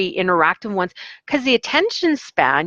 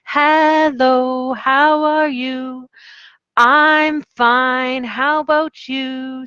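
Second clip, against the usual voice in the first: imitating the students' reply; 7 semitones higher, much slower than usual. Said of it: "then they would say".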